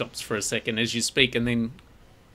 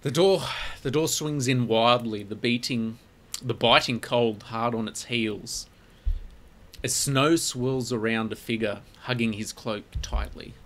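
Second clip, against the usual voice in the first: measured, suspenseful story narration; game master's scene setting. A narrator's reading. Game master introducing a cloaked stranger, measured narration.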